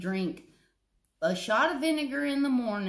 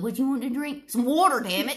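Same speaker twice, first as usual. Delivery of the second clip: mocking imitation; 4 semitones higher, 6 dB louder, faster than usual. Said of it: "he makes fun of me. He said".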